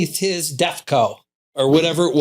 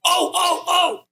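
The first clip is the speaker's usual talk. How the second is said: put-on eager kid calling out; 13 semitones higher, slower than usual. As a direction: beg the teacher to call on you. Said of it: "I'd be like".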